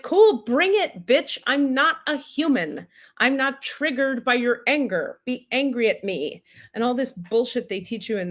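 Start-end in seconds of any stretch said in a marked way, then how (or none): 0.0-6.4 God's voice. Retold or imitated. Teller voices God inviting her anger, playful mock taunt. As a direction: goad them on, unbothered. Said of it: "And it's like".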